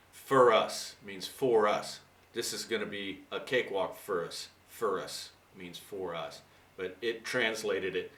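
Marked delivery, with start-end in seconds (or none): 0.1-2.0 slowly and deliberately, "For us" said twice; slow, clear explanation. Shown as a demonstration. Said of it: "this guy speaks with such an accent". 4.7-6.4 a quieter, slow restatement of "for us"; softer repeat. Shown as a demonstration. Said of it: "this guy speaks with such an accent".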